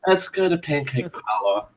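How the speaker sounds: stoner voice. Pretend. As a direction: talk like a baked surfer dude. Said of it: "Why do we all have a stoner voice?".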